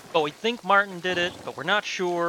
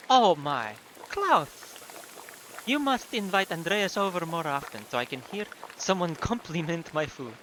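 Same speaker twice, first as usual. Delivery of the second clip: put-on playful chiding in a light German accent; exclaim, then settle, with a hint of German; vaguely German accent. Wife teasing husband over compliments on cooking, vaguely German accent. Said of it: "how to do a vaguely German accent".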